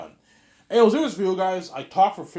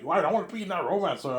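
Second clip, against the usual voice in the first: fast, higher mock plea; begging; 6 semitones higher, faster than usual. Actors begging to be in the romance story, mock plea. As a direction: plead quickly like a begging actor. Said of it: "they're gonna beg".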